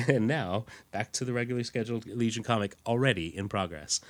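smooth retro broadcast voice; old radio announcer. Pretend. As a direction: announce the return like vintage radio. Echoes announcer gag.

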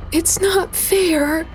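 slow, high and tearful; a broken protest through tears; crying out alone over the dead. Acted. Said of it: "she cried".

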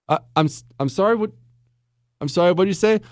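hesitant, halting apology; confused customer. Acted. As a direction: play a puzzled customer straining to catch it. Acts customer who cannot hear.

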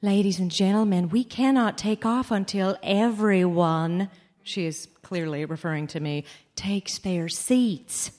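slow, pointed PA announcement; flight attendant announcement. Retold or imitated. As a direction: announce it pointedly over the intercom. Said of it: "the flight attendant's voice comes over the loudspeaker".

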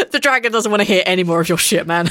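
laughing. Real, not acted. DM laughing while narrating.

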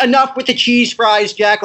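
exasperated New York parent voice; thick New York accent, scolding. Retold or imitated. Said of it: "they have that thick New York accent".

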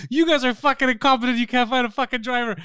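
high, loud retold tirade; heated, exasperated customer rant; angry complaint. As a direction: chew out customer service. Retells angry complaint to Uber agent.

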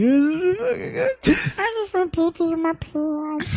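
Elmo voice. Acted. Voicing Elmo puppet.

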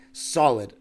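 "solid" hit a little harder and stretched; emphasis on solid. Shown as a demonstration. Podcaster stressing the Clippers' record was solid, with "solid" hit hard. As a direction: lean on the word "solid" so it lands. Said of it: "emphasis on solid".

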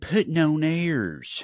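drawn-out high show-title call in a silly voice; odd put-on voice. Host announcing the show's title, odd put-on voice. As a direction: stretch the title out, high and falling. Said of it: "What is that voice?".

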